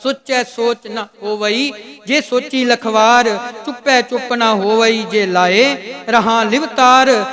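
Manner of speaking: slow, measured Gurbani recitation; scripture recitation. Shown as a demonstration. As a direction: recite the verse firmly, drawing out line endings and setting words apart. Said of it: "ਕੱਲਾ ਨੰਨਾ ਚੁੱਕ ਕੇ ਉਚਾਰਨ ਕਰ ਦਿਓ". (ਠਹਿਰਾਅ ਨਾਲ ਹੌਲੀ ਗੁਰਬਾਣੀ ਪਾਠ)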